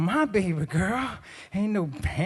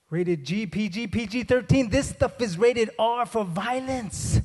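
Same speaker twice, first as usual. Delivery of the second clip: building to a higher, drawn-out finish; comic indignation, rising; mock outrage; 4 semitones higher than usual. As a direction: protest like a scandalized dad. Acted outrage at nursery rhymes.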